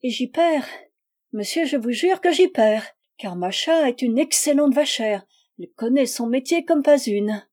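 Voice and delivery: high, plaintive haggling; little flute voice. A narrator's reading. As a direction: protest in a piping, fluty voice. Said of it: "soupira Pélagie en petite flûte".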